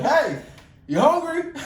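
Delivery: mock sweet sister. Mimicking sister.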